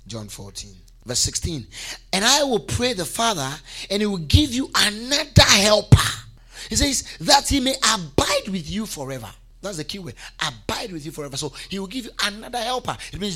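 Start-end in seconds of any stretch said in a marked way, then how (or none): 2.1-9.3 raised, loud reading that swells on key words; emphatic scripture preaching. Real, not acted. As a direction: proclaim the verse to the congregation.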